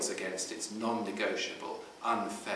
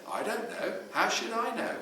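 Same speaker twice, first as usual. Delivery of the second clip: put-on shrugging teen; 12 semitones higher than usual. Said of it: "teen shrugging off question".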